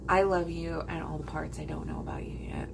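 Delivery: hushed, tender whisper; soft whispered confession. Retold or imitated. Telling him she loves him, whispered. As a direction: breathe it like a secret. Retelling her love confession.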